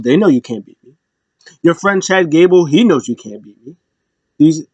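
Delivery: lightly voiced smug champion; imitating Gunther. Gunther taunting Sami Zayn, lightly smug voice. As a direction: taunt him with mild swagger. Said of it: "Gunther's being Gunther".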